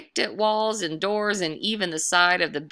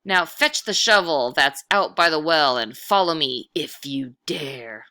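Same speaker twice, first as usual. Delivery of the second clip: louder ghost voice, fading on dare; ghostly dare; 6 dB louder than usual. Acted. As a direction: challenge the boy to follow. Ghost challenges the boy.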